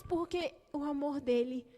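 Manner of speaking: hushed, drawn-out declaration; slow sincere sermon close; slow tender preaching. Acted. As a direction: let it sink in slowly. Preaching climax, slow whisper.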